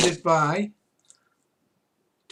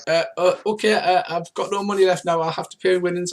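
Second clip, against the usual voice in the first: higher, louder nervous stammer; flustered stammer; 5 semitones higher, 5 dB louder than usual. Acted. Hustler caught out after losing her money, hammed-up nervous stammer. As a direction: babble like she's been caught out.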